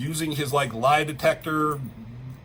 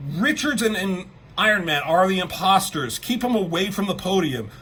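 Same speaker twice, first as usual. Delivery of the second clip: higher, mildly panicked retold warning; freaking out; 5 semitones higher, 3 dB louder than usual. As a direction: act out an alarmed warning. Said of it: "fucking freaking out".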